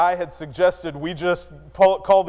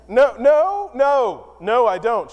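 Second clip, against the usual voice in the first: hasty denial; 4 semitones higher, slower than usual. Retold or imitated. Husband hastily backpedals.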